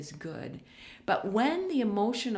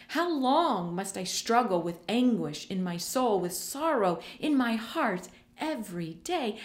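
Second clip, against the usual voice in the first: anguished plea; 3 semitones higher than usual. Acted. David crying out to God in anguish, pleading. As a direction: read it with David's anguish, not calmly. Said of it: "I can hear the emotion back behind David's words".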